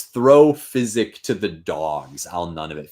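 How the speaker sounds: scornful Macbeth. Acted. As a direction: toss it away slowly. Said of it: "the Macbeth says".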